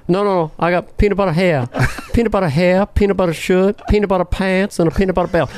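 nutty president insisting in a rhythmic list; Jimmy Carter. Acted. President correcting his aide, rhythmic Jimmy Carter impression. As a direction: repeat the lilting beat item by item. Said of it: "the rhythm of that".

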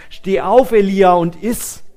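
a stern wake-up order from the angel; commanding call. A narrator's reading. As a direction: call him up with authority. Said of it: "befahl er ihm".

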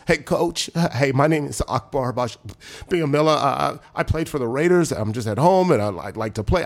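halting, mildly nervous introduction to a coach. Retold or imitated. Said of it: "with nerves in my voice".

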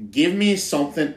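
unconvincing Australian accent; bad Australian accent. Shown as a demonstration. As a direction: have a rough first go at Australian. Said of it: "no, that sounds really bad".

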